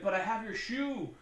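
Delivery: playful imitation of a pushy suitor; pleading suitor. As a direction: beg lightly at the door. Voicing pestering suitor at door.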